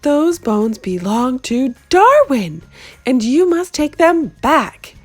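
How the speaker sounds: a mother laying down the law; stern mama ordering. A narrator's reading. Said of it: "ordered Mama".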